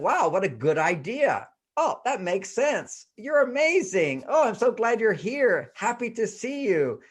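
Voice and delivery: lightly mimicked adoring wife; admiring gush. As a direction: gush over him like a new bride. Wives' early admiring praise.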